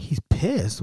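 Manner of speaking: retold disbelieving question; questioning echo. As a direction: echo it back as a puzzled question. Teller echoes it back, questioning.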